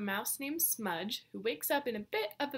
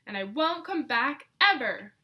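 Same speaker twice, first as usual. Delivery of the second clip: louder storming-off declaration; loud defiant cry; 2 semitones higher, 7 dB louder than usual. Acted. Grumpy mouse leaving home, crying out loudly. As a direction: fling it over your shoulder as you stomp out. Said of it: "Smudge cried".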